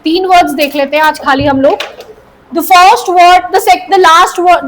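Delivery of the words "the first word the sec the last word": normal talking voice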